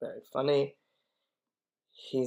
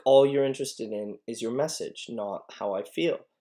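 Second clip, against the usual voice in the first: annoyed; 6 dB louder than usual. Acted. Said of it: "She's annoyed".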